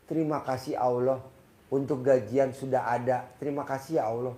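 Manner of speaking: a gentle, trusting thank-you; grateful prayer. Shown as a demonstration. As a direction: thank God calmly, as if already given. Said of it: "Dari intonasi aja udah artinya beda".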